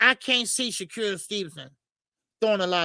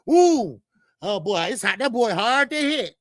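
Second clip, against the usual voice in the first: mock impressed fighter; 4 dB louder than usual. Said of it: "Everybody got out the ring and said".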